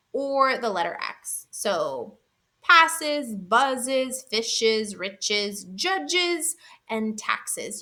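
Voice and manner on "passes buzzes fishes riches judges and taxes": "passes, buzzes, fishes, riches, judges, and taxes" listed with a clear iz ending; extra final syllable. Shown as a demonstration. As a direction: make the second syllable audible from "passes" to "taxes". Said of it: "actually hear the extra syllable".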